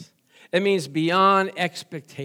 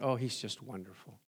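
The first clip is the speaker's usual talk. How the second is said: offhand praise; 9 semitones lower, 14 dB quieter than usual. Retold or imitated. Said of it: "we use that term loosely".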